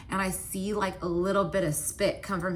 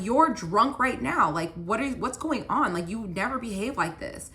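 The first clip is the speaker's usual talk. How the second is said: retold rising anger; 4 semitones higher than usual. Girlfriend getting mad at drunk boyfriend at home, retold exasperation. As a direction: confront them with moderate, exasperated anger. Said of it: "now I'm getting mad".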